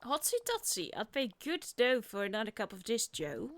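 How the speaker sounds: lightly voiced jazz-age excitement; Oswaldian slang talk. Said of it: "there's the Oswaldian speech".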